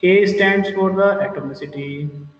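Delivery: A stands for the atomicity, each word slow and spaced for note-taking; steady dictating pace, pausing after each letter; slow dictation. Shown as a demonstration. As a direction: dictate it slowly so they can write. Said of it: "note down this thing in your mind".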